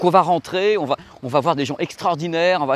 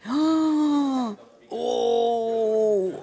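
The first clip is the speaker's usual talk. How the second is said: awed gasp; 8 semitones higher than usual. Real, not acted. Marvelling inside the factory.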